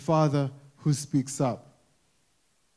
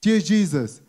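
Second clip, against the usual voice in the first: pleading cry, only slightly raised; mild mock plea; 3 semitones higher than usual. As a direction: beg with urgency but keep it modest. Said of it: "He screams out".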